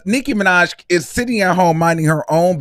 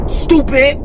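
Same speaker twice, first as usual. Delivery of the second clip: laughing; 7 dB louder than usual. Real, not acted. Laughing at a singer.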